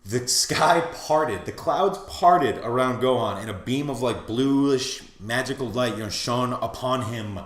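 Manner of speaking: slow, stately epic narration; grand, proper narration. Shown as a demonstration. Fan describes the sky opening over Gohan, grandly. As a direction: draw out each phrase like a solemn legend. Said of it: "to say it in the most proper way".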